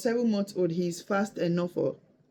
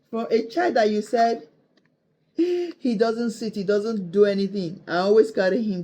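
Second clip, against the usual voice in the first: amazed excitement; 5 dB louder than usual. Real, not acted. Amazed the baby stood alone.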